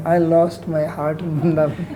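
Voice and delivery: gushing pilgrim parody with a laugh; lightly hammed-up swooning devotee; mock sentimental devotion. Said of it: "You've seen those people putting on the".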